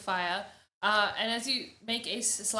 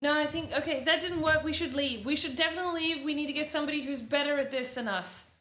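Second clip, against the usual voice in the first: higher-pitched, insistent worry; anxious urging; 5 semitones higher, faster than usual. Acted. Woman wanting to leave for better help, anxious and insistent. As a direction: urge everyone out, flustered.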